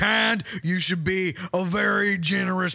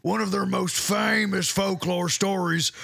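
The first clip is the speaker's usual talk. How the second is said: measured Southern storyteller; lightly theatrical children's story reading; storytelling. Acted. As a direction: tell it like a folk tale, drawing out the ending. Tells his children's story.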